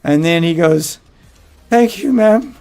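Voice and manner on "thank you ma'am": higher-pitched imitated Asian accent; little put-on Asian accent; mock Asian accent. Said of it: "in his little Asian accent".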